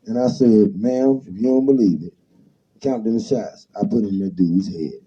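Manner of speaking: rhythmic barroom toast, told in rhyme; toast recitation. Acted. Host reciting rude rhyming poetry to his guest, performed as a toast. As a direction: recite it like an old street toast. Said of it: "That shit house poetry".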